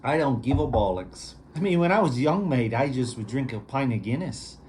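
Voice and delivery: mock Irishman with a clumsy accent; terrible Irish accent. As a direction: ham up a bad Irish brogue. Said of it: "Terrible Irish accent".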